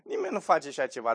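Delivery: dry ironic repeat. Shown as a demonstration. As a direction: say it with a wink of irony. (pe un ton ironic)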